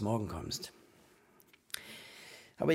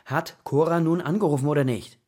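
demanding; 2 semitones higher, 6 dB louder than usual. Acted. Father demands an answer.

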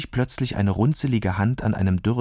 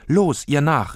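louder, eager call to follow; higher, louder rallying cry; urging call; 5 semitones higher, 4 dB louder, slower than usual. Acted. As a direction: push your friend to get going. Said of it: "rief Anne auffordernd".

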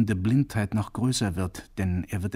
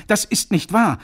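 loud, high cry, weight on wahr; piercing cry; 10 semitones higher, 7 dB louder than usual. Acted. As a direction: hurl it out. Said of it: "rief er durchdringend".

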